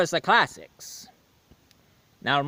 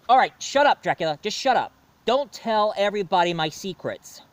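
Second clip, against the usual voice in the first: annoyed shut up; 4 semitones higher than usual. Acted. Dracula threatens to tell secrets.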